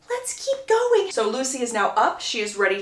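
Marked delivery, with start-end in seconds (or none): 0.1-1.1 forced cheer. Retold or imitated. Lucy pushing them onward.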